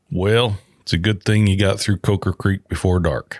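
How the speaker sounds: retold Southern local's warning; lightly put-on Southern accent; thick Southern accent. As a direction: imitate a Southern station attendant. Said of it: "got this real thick Southern accent".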